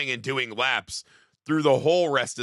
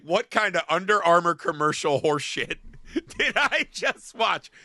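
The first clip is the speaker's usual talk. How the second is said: incredulous; 5 semitones higher, 3 dB louder than usual. Retold or imitated. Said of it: "And I was like".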